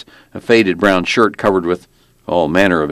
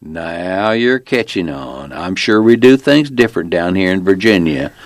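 self-satisfied Virginia lawman, drawing out the first words; small-town cop. Acted. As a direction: play a folksy officer spelling it out. Narrator plays the small-town cop.

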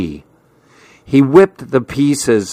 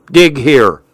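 called out; 2 semitones higher, 4 dB louder than usual. A narrator's reading. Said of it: "he called out".

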